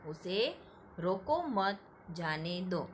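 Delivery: रोको मत as one phrase, then जाने दो; pause after मत. Shown as a demonstration. Teacher repeats the second sentence, pausing after मत. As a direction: keep मत with रोको, break before जाने दो. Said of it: "वाक्य पढ़ते समय वहाँ पे थोड़ी देर रुकना है".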